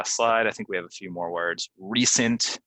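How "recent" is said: "Recent" said REE-sent; long E. Shown as a demonstration. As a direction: model "Recent" with a clear long ee. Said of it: "that's a E".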